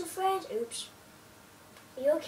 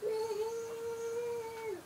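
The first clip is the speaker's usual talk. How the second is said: whooping; 7 semitones higher, much slower than usual. Real, not acted. Cheering while riding.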